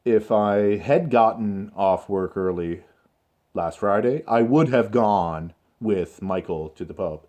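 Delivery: deliberate phrasing with brief pauses; slow, controlled model answer. Shown as a demonstration. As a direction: lay out the example slowly and clearly. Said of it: "this is the way in which I would like you to consider speaking".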